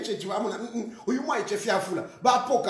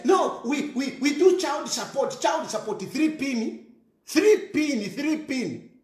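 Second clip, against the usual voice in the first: mocking father; 3 semitones higher, slower than usual. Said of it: "And you say".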